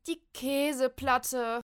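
high, loud, slow wail. Acted. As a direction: lament the ruined cheese. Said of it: "jammert Molly". (laut jammern)

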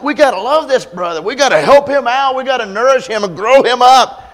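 rally for the brother; earnest plea. Retold or imitated. Barnabas urging Paul to love Mark, high and eager.

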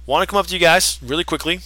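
high, cocky mock sales pitch; hammed-up smug wrestler voice; mocking MJF pitch. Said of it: "he goes up to Matt and Nick. It's just like".

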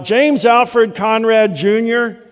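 slow, high, emphatic full-name summons; mom crying out. Retold or imitated. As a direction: imitate a mother's final warning, each name drawn out. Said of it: "her voice cry out".

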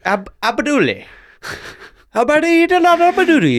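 high, loud mock singsong Abduli; silly squeaky name. Mocking the name, laughing.

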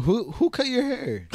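mocking classmates. Classmates asking about haircut.

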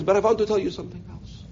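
put-on soft, crackly European old lady; crackly old aunt. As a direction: beckon closer in a little accented crackle. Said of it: "with her little crackly voice".

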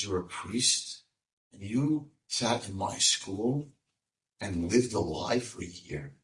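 slow, soft, stern disappointment; a quiet, wounded reproach; stern rebuke. Acted. Rav Noach rebuking the priest, slow quiet sternness.

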